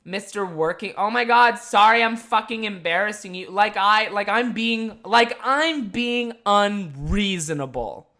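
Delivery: lightly voiced drunk, sarcastic apology; super drunk girl. Drunk girl to the working host who snapped, sarcastic mock apology. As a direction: drag out the last words with mock-offended sarcasm. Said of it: "classic super drunk girl fashion".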